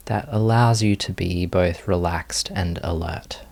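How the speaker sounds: calm, unhurried meditation guiding with long pauses; guided meditation. Real, not acted. Teacher leading students into meditation posture, unhurried guided meditation. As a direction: ease them gently through each movement, leaving space. Leads the settling movement practice.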